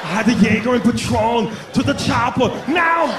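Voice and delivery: put-on driver, rising to a high command; drunk action-hero voice. Pulled-over driver answering police, mock heroic. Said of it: "that's exactly how you sound".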